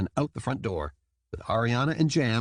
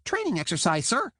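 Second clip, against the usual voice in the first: quick, smooth, higher soldier reply; without missing a beat; 12 semitones higher than usual. A narrator's reading. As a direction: answer instantly, no hesitation. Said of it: "without missing a beat".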